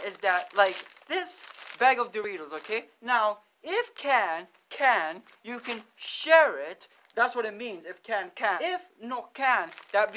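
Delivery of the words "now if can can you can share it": slow explaining. Shown as a demonstration. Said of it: "I will explain it".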